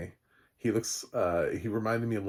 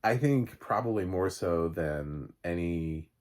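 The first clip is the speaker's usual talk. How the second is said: ordinary talk, nothing marked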